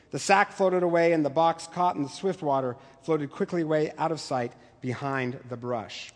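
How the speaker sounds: measured read-aloud of a novel passage; story narration. Acted. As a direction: read it like a teacher sharing literature.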